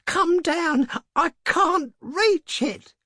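high, loud call, dragging at the end; strained, panting cry. A narrator's reading. Old woman calling her husband to the bolt, strained cry. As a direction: shout up desperately, straining. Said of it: "strained and panting".

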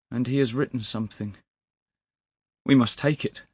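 high, loud, anguished pleading; distraught clerk. A narrator's reading. Weeping clerk tells of begging his master, distraught. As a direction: pour it out in grief.

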